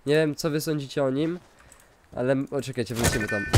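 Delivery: ordinary delivery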